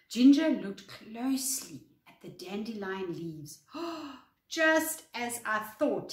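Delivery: lively, clearly paced read-aloud; expressive bedtime story narration; children's story reading. A narrator's reading. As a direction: read a picture book to young children. Reads a picture book to children.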